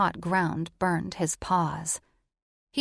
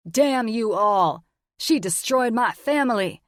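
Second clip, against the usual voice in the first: furious shout; 4 semitones higher, 5 dB louder than usual. Acted. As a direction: bellow it in fury. Magnus raging at the djinn.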